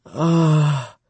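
high, drawn-out sigh; breathed sigh. A narrator's reading. Lover responding as he watches, sighing out. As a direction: let out a long high breath. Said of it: "she breathed".

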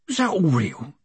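high character voice for a dwarf; Wheezy the dwarf. A narrator's reading. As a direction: ask it in a small, high voice. Dwarf Wheezy speaks in story.

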